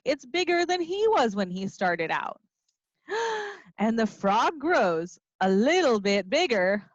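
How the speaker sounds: animated storybook reading; reading to children. A narrator's reading. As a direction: read it like a lively story time. Teacher reading picture book aloud.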